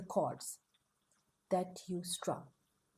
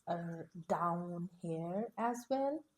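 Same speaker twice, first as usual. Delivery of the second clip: lower, slowed-down character asking; slow, hesitant query; 4 semitones lower, 3 dB quieter, slower than usual. Acted. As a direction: draw it out, puzzled.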